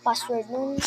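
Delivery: panicked rush about a lockout; flustered exclaiming. Real, not acted. Panics over locked account.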